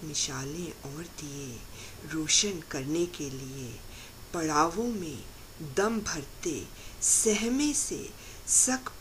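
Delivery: measured, expressive verse reading with pauses; poetry recited to an audience; poem recitation. Acted. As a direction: recite it line by line, lingering on the images.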